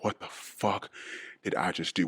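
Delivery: hushed what-have-I-done; whispered shock. Retold or imitated. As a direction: breathe it out like catching yourself. Inner reaction of shock.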